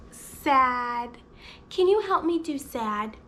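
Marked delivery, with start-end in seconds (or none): 0.1-1.2 pretend-sad oh, then the word; acted sad. Shown as a demonstration. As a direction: play sad for toddlers. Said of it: "What's a sad face?".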